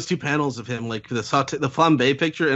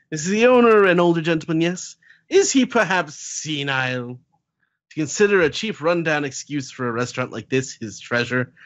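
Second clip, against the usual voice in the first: mock haughty lady; 3 semitones higher than usual. Heroine mocking the restaurant owner.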